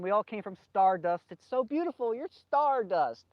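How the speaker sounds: a gentle hint of wonder about the stars; Carl Sagan impression. Speaker mocking Carl Sagan on stardust, lightly awed. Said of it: "Or Carl Sagan".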